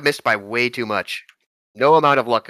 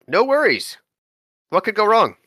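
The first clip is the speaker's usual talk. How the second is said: sarcastic; 8 semitones higher than usual. Acted. Ironic high voice.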